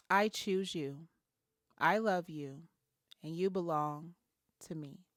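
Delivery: soft, unhurried affirmation; tender reassurance. Shown as a demonstration. Host models words for your wounded inner child, tender.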